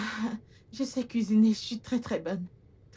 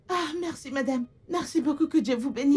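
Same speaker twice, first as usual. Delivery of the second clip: higher-pitched, excited thanks; overjoyed gratitude; 4 semitones higher than usual. Acted. New maid thanking madam for the job, overjoyed. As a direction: gush with thanks as the pitch lifts.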